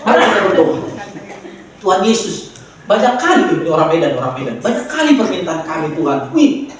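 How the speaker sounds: lightly mocked lazy Medan prayer. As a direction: toss off the prayer lazily. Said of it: "Itu doa orang malas". (meniru doa malas orang Medan)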